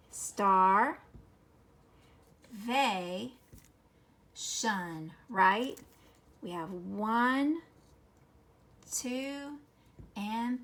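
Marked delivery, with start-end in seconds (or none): 0.1-5.1 "Star, they, shun" each piece split apart, first one loud; syllable breaks. Shown as a demonstration. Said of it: "Here's the vowel break".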